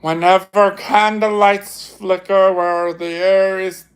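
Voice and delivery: lightly voiced eerie ghost host; ghost host narration. Reading the ghost host script.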